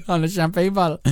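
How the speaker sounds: imitating a coworker's northern accent; put-on northern accent. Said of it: "the accent you're putting on".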